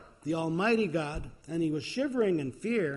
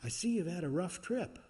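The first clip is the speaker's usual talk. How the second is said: gentle voice of God; 4 semitones higher than usual. Retold or imitated. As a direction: greet him gently, pitched a little up. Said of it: "in a gentle voice saying".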